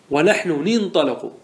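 "ننطلق" as nintaliq, nun with kasra, slow; Tamimi kasra prefix. Shown as a demonstration. Teacher to class, slow Tamimi kasra demo. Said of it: "أن تكسر حرف المضارعة".

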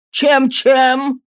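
high, loud and revolted; disgusted growl. A narrator's reading. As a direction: snarl it with pure disgust. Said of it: "зарычал Сайкс с крайним омерзением".

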